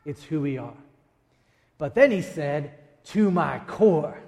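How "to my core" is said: To my core, slow and pressed hard; stressed slowly. Shown as a demonstration. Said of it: "And I went, No".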